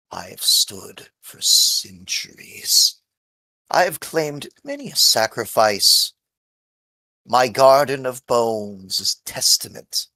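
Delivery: a hint of a menacing old tree; talking tree. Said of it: "she gives a cackle".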